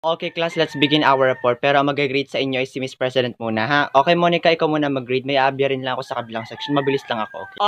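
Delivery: a hint of a strict teacher dismissing class. Teacher figure addresses class.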